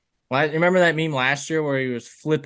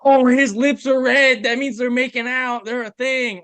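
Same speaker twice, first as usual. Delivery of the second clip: lightly voiced breathless gossip, pitched up; mock gossiping fans; 5 semitones higher, 3 dB louder than usual. Mimicking fans breaking down everything Travis does, high gossipy excitement. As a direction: imitate fans overanalysing every move. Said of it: "breaking down everything Travis is doing".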